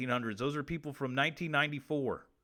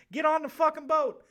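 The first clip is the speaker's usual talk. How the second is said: insistent order; 14 semitones higher, 9 dB louder than usual. Acted. Anubis ordering again.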